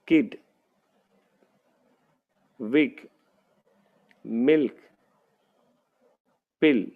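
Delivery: teacher models short i words; word list read-aloud. Shown as a demonstration. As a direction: read each word clearly for the class. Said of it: "अब देखिए कैसे होगा".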